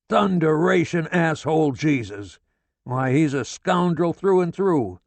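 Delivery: father raging at his wife, all out; going all out. A narrator's reading. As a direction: give it everything, fully unhinged. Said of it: "He goes all out".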